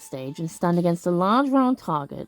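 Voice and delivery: measured game-text narration; story narration. Acted. Player reading patrol results to viewers, story narration. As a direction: read it out like a storyteller.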